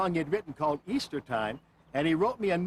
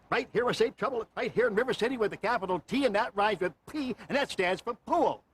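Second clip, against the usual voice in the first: salesman pitch; 4 semitones higher than usual. Pretend. Performs Music Man trouble speech.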